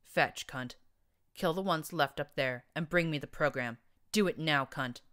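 loud commanding bark; barked order. Acted. Cyborg ordering narrator.

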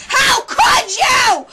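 outraged shout. Real, not acted. Outraged at the villain.

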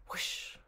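whispered whoosh. Acted. Tiger slides down.

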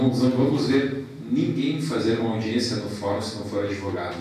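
normal talking voice

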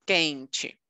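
"Quente" said "KEN-chee"; K sound, silent U. Shown as a demonstration. Teacher shows student the QU rule, "Quente" as "KEN-chee". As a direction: open "Quente" on a bare K, no W. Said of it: "Neste caso, seria K".

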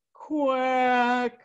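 a lightly voiced duck reply; duck's quack. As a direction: answer like a tired duck. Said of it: "The duck answered".

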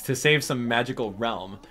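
lightly voiced cranky mole, scolding and sarcastic; a hint of a grumpy mole lecturing; Mister Resetti voice. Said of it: "I do a very good Mister Resetti".

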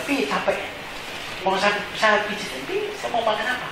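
soft, hushed imitation of a dutiful child; mock solicitous child. Child offering tired father a massage, soft and solicitous. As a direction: drop to a gentle, coaxing murmur.

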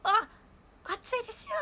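high, loud cry of warning. Retold or imitated. To staff grabbing the hot pot, a loud warning. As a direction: warn them sharply about the hot pot.

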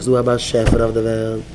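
low-pitched, steady affirmation; measured, low mantra; calm mantra. Shown as a demonstration. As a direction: recite it low for others to repeat. Models a mantra to repeat.

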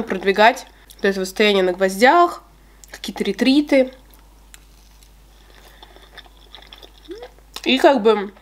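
chewing while talking; muffled speech around food; mouth full of cake. Real, not acted. Seen 2: Bites cake at 0.9 and 5.5; chews with full cheeks while talking.

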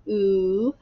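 OOH as one long, held oo sound; vowel sound demo. Shown as a demonstration. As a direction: hold Ooh as a pure long vowel for pupils. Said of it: "what sound does the O make?".

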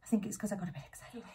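breathless, fast, panting talk; out of breath. Real, not acted. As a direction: talk while catching your breath. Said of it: "I'm so out of breath".

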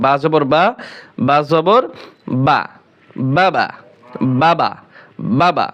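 quick, short open vowel in "বাবা". Shown as a demonstration. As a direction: keep each "বা" short and unlengthened. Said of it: "তাই দ্রুত উচ্চারণ করতে হবে".

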